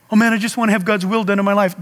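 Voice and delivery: fast, mock whiny believer; mock pious whiner. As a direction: rattle it off like a fussy saint. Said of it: "Can you imagine being in heaven?".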